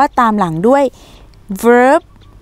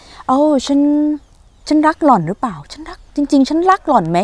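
doubting lover; 5 semitones higher than usual. Pretend. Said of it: "หรือว่า".

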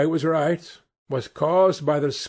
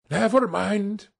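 encouraging cry; 7 semitones higher than usual. A narrator's reading. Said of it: "he cried encouragingly".

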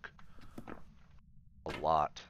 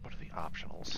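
whispering; 3 semitones lower than usual. Real, not acted. Hushed while ghost hunting.

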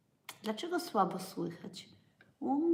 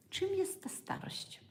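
hushed whisper, higher; whispered question; 11 semitones higher than usual. Real, not acted. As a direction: whisper it as a mystery. Rhetorical question whispered to viewers.

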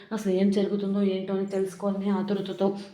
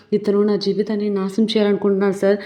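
louder mock cry for help; woman shouting to the police, louder; retold shouting; 5 dB louder than usual. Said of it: "గట్టిగా అరుస్తూ కేకలు వేస్తూ".

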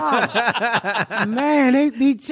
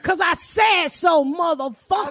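higher, slow parental shout; mock shout; 5 semitones higher, slower than usual. Mom shouting back at a kid asking why, slow. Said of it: "You say something".

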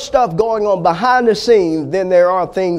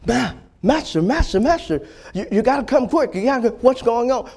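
frightened servant; 5 semitones higher, faster than usual. Acted. Servant begs master to come.

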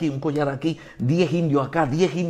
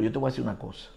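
low, softer, resolute declaration; defiant to devil; 5 semitones lower, 4 dB quieter than usual. Retold or imitated. Pastor telling the devil the land is his, low defiance. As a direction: stand your ground in a lowered voice. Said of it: "yo le dije al diablo".

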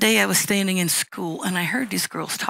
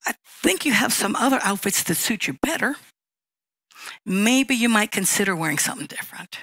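gentle honesty. Shown as a demonstration. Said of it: "you could say it like this".

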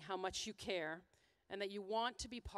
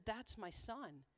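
slow, hushed and softer, a touch of tears; choked-up quote; 4 dB quieter, slower than usual. Retold or imitated. Speaker retells the father's tearful words, slow and hushed. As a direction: let it catch in the throat, quietly. Moved father sees his son.

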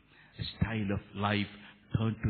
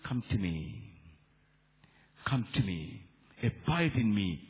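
Jesus. Acted. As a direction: gently call the burdened in, voice dropped. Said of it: "Jesus is telling you".

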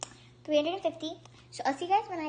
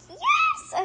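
mock yes; 6 dB louder than usual. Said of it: "She's like".

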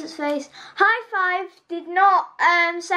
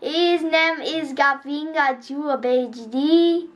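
slow, lower mock Russian-ish Gru accent; a kid doing Gru's accent slowly; Gru accent impression; 3 semitones lower, slower than usual. Kid greets viewers as Gru, in a slow mock Russian-ish accent. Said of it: "kind of like how he talks".

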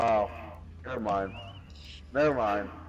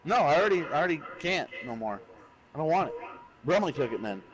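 sulky, raised-voice grumbling; frustrated griping; 4 semitones higher, faster than usual. Real, not acted. Annoyed someone took his class.

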